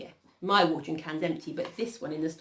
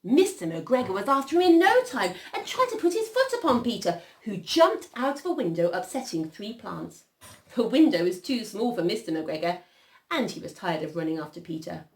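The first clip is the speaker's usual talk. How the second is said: animated storytelling, loud then settling; story narration; 4 semitones higher, 6 dB louder than usual. A narrator's reading. Reader telling children of Peter's escape, animated storytelling. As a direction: rush in high, then calm as the chase ends. Reads a picture story aloud.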